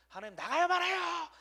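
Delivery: high, loud, insistent begging; pleading demand. Pretend. Believer badgering God about the election, loud high pleading. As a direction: pester God like a whiny child.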